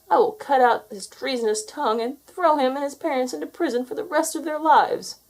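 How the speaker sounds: villain roaring a cruel threat. A narrator's reading. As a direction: bellow the threat at the boy. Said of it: "he roared".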